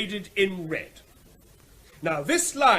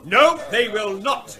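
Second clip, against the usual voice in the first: firm loud refusal; 7 dB louder than usual. Acted. Blunt refusal to trader.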